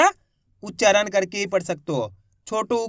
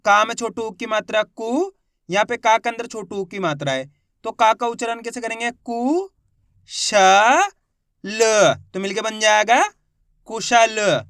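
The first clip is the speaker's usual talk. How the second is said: teacher spelling each syllable aloud; syllable-by-syllable reading. Shown as a demonstration. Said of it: "देखो किस तरीके से है।". (अक्षर-अक्षर ज़ोर से बोलकर पढ़ाना)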